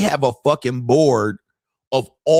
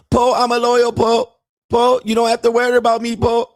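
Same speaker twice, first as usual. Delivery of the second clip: put-on high, broken-English Thai girlfriend voice; mock Thai accent; 10 semitones higher, 4 dB louder than usual. Mocking Thai girlfriend asking her man for money in a high accented voice. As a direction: imitate a Thai bar girl pleading for money.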